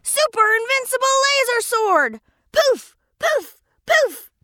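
high, excited battle cry; heroic attack cry. Acted. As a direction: swing the sword with a shout.

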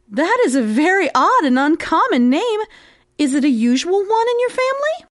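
lively questioning, climbing high at the end; puzzled mouse. Acted. Mouse questions the odd name.

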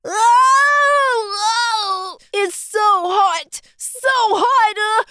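crying out from the heat; pained whimpering; hot panic. Acted. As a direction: yelp in distress. Cookie on bald head.

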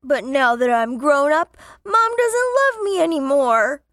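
put-on tearful, grieving child. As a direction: say it through hurt tears. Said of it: "said grievously".

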